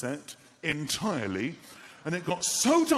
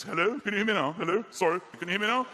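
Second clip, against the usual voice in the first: raised voice repeating into the phone; calling on bad phone line; 5 dB louder, faster than usual. Comedian in a field with one bar, calling loudly. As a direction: shout into a weak signal.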